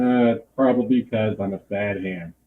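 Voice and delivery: muffled, dull audio. Real, not acted. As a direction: sound muffled through bad audio. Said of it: "Why do you sound so muffled?".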